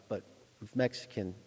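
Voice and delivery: normal talking voice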